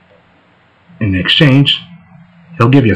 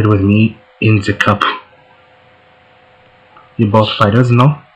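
lightly put-on, hammy French accent; a bad French impression, only a hint of the accent; terrible French accent. Voicing the French fighter Johnny in a game, badly faked French accent. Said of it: "That was a terrible French impression".

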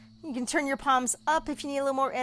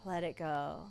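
breathy sigh, then soft release; 5 semitones lower, 13 dB quieter than usual. Shown as a demonstration. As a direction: let it go on a long sigh. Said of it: "So like a sigh".

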